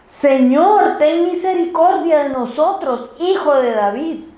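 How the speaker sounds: mild imitated cry. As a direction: call out pleadingly, without a full shout.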